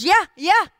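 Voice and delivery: raw anger. Acted. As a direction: blurt it out like a wronged man. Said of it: "in his rawness".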